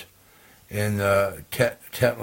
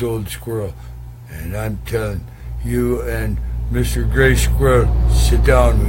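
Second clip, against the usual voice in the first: louder, ordering them to sit; loud commanding call; 5 dB louder than usual. Acted. Red squirrel ordering the squirrels to sit down, loud. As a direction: boom it out to settle the quarrel.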